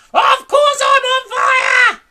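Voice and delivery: high, loud, slow shouting; outraged yell. A narrator's reading. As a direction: roar it back at him. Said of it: "she yelled".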